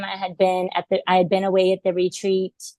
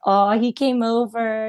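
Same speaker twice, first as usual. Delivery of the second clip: mildly giddy retold delight, higher and slow; 4 semitones higher than usual. Telling how the horse seemed to come over, giddy. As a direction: relive a touch of giddy wonder, drawn out. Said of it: "all giddy".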